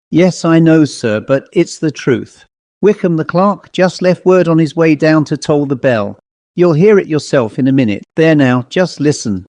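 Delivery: hurried, anxious servant urging him to listen; agitated housekeeper. Acted. Housekeeper pressing the rector, mildly agitated. Housekeeper breaking bad news.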